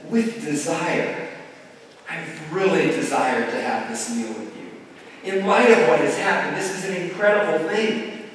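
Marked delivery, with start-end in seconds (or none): 0.1-5.3 tender emphasis. Shown as a demonstration. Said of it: "And Jesus says".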